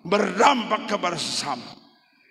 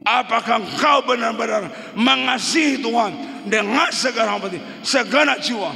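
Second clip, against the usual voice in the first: fiery preaching. Acted. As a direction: challenge the whole church with fire. Preacher's climactic appeal.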